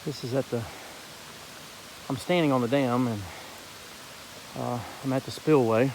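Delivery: winded after climbing a hill; out of breath, catching air between phrases. Real, not acted. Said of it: "if I sound a little bit out of breath".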